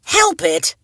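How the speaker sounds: scoffing disbelief pushed up; screeching. A narrator's reading. Boy scoffing at his cousin, mild screech. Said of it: "screeched Awan".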